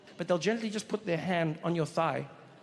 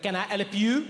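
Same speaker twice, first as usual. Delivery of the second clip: annoyed. Retold or imitated. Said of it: "an annoyed voice behind me".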